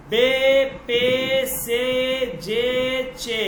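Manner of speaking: each of "বে, পে, সে, জে, চে" on a long e; Persian zer vowel. Shown as a demonstration. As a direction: hold the e in "বে" through "চে". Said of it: "তখন আপনাকে উচ্চারণ করতে হবে".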